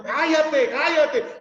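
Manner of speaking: high, loud, half-laughing shush; mock crowd hushing. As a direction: hush him loudly with a laugh. Crowd hushing the blind man.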